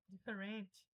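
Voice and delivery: "diferente" stressed late, Portuguese-style; wrong pronunciation. Shown as a demonstration. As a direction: misread English different as "diferente". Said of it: "não é nenhuma dessa forma". ("diferente" errado, tônica fora do di)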